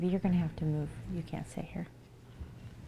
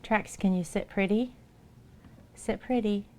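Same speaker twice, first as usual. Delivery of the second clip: pet talk; 5 semitones higher, 4 dB louder than usual. Real, not acted. Training cat for treats.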